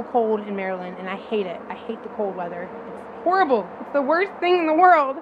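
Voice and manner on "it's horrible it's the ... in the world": mock dramatic. Not really.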